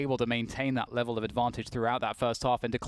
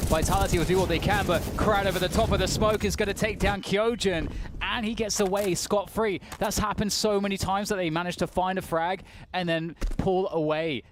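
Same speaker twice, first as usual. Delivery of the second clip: raised, driving match commentary; excited play-by-play; 5 semitones higher than usual. Real, not acted. Caster calls Krad taking down Kyojin, excited play-by-play. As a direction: call the kill as it happens.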